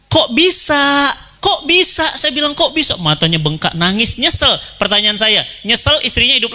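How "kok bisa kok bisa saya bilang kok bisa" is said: shocked disbelief. Retold or imitated. Preacher retells asking prisoner, shocked.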